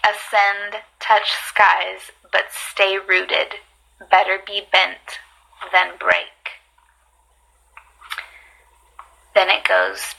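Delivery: measured, deliberate poem recital; poetry reading. Acted. Reading poetry to live viewers, measured and deliberate. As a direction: read it out in slow, separated phrases.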